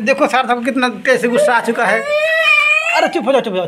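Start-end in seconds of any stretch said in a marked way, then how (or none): 2.9-3.7 sharp scolding call to hush; telling off. Real, not acted. Angry child throwing toys.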